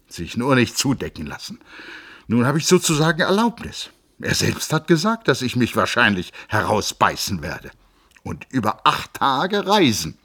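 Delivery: bursting with triumph; trembling with joy. A narrator's reading. Joachim tells his cousin on the stairs, excited and joyful. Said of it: "seine freudebebende Aussage".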